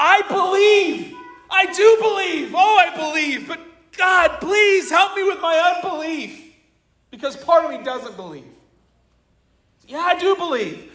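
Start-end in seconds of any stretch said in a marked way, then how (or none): 0.0-6.4 high, anguished crying out. Retelling the father's plea, acting out his cry of anguish. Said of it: "he cries out in this anguish".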